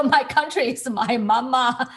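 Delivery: jokingly saying "mama" for country; a playful misuse of "mama"; mock wrong phrasing. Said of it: "you know".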